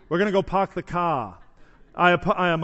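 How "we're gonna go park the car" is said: imitated accent dropping the R in "park" and "car"; regional non-rhotic accent. Shown as a demonstration. Preacher mimics out-of-towners for the congregation, non-rhotic accent. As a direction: put on a "pahk the cah" accent. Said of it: "may actually have that accent".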